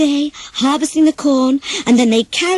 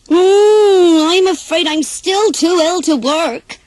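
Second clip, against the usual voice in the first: higher, put-on sickly pig voice; pig pretending to be ill; 7 semitones higher, 6 dB louder, slower than usual. Pig to the hen, fakes being too ill to work, feeble put-on whine. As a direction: fake a feeble groan, angling to skip the work. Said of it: "said Peter Pig".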